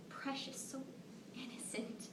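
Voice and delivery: breathy, near tears; choked up. Acted. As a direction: let the voice break away. Moved by child's face.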